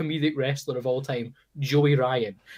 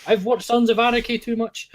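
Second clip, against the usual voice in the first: high howling wrestler parody; howl, then carry on in a high mock voice; mock Wolfgang howl; 10 semitones higher, slower than usual. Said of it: "it was Wolfgang came out being all Wolfgang".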